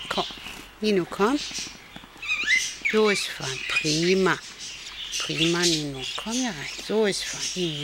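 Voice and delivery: calm them down softly. Real, not acted. Calming an animal, gentle repeats. (beruhigend und sanft)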